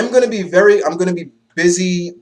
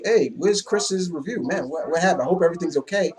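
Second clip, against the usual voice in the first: softer mock-concerned fan voice; imitated worried viewer; 3 semitones higher, 5 dB quieter than usual. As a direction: play a viewer wondering where the host went. Imitating worried viewers asking after him.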